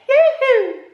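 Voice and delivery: high gleeful yoo-hoo with a laugh; sing song yoo hoo. Real, not acted. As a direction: whoop it up high and bright. Celebrating the weekend.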